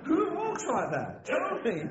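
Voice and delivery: high-pitched, incredulous, through real laughter; laughing. Real, not acted. Preacher joking to church about catwalk models, high and laughing. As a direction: ask it while giggling in disbelief.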